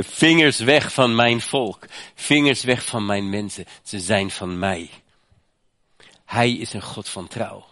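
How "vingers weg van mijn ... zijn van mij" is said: firm, louder, slow warning; God's protective voice. Acted. Preacher voices God guarding his people, firm and slow. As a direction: claim the people as God's own. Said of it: "zegt God".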